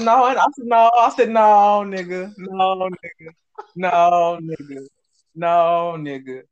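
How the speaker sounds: loud, drawn-out "no", dropping away on the last word; emphatic retold refusal. Retelling how he refused the coworker, emphatic and drawn out. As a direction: stretch each no, trailing off after it.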